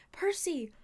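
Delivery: high, loud call of a name; startling shout. A narrator's reading. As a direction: call out sharply to get attention. Sudden call right beside him.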